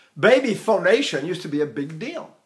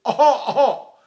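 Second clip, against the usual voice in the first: higher, louder rounded oh sounds; un-babylike "oh"; 5 semitones higher, 5 dB louder than usual. Shown as a demonstration. Teacher shows what no baby does, raised round "oh, oh". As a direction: call out short, round ohs. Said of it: "No baby does this".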